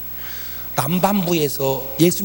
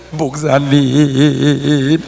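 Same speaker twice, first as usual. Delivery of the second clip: sobbing call; 3 semitones lower, 7 dB louder, much slower than usual. Retold or imitated. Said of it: "엉엉 울더래".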